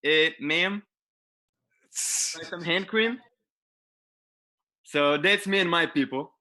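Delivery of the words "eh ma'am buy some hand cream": sexy Israeli mall-vendor voice. Retold or imitated. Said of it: "someone with a very sexy voice says".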